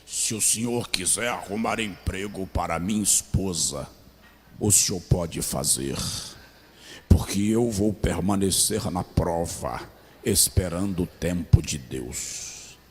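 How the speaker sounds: very low, thickened, deep put-on voice. The speaker quotes a man's answer about a job for his wife, in a deepened voice. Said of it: "Ele engrossou a voz e disse assim".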